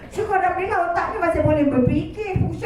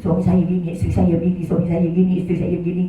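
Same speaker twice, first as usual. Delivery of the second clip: complaining clients; 10 semitones lower, faster than usual. Retold or imitated. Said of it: "Yang datang semua ngamuk".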